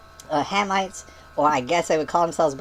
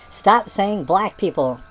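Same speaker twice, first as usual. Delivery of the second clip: slow mock yell; 2 semitones higher, 4 dB louder, much slower than usual. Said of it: "She says".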